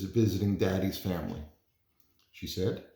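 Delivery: lively picture-book read-aloud; gentle storytime voice, figures lightly voiced; reading to children. Reads picture book to class.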